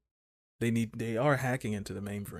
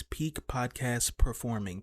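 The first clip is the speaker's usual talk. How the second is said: slow drawn-out; slower than usual. Pretend. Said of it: "vocal warm-up things".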